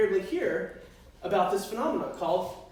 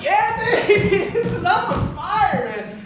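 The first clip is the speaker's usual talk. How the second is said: put-on much higher and louder, hyped Yeah baby; pumped up; 10 semitones higher, 6 dB louder than usual. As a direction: whoop it out like you own the race. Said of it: "and I'm like".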